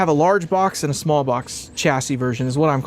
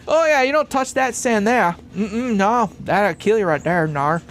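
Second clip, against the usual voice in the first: higher-pitched, badly faked Aussie warning; horrible Australian accent; 3 semitones higher than usual. American teasing Australians about deadly sand, horrible mock Australian accent. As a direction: put on a hammed-up Australian accent. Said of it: "that was a horrible accent".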